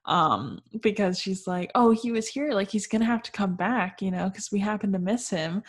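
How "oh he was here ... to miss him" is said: mildly excited imitation, lifted at the start. Marianne finding Willoughby's card, mildly excited. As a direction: act out hopeful self-reassurance. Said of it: "Mary Ann is so excited".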